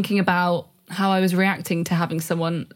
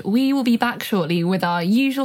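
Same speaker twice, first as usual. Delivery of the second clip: announcer voice. Acted. Podcast host segment announcement.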